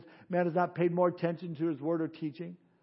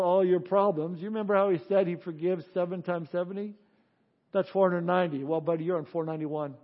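sarcastic. Acted. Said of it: "Now, you know I'm being sarcastic".

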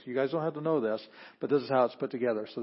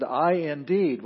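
I indeed said slow and louder; emphatic "I indeed"; 3 semitones higher, 6 dB louder, slower than usual. Shown as a demonstration. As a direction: give I indeed full weight. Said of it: "trying to show that it's emphasized".

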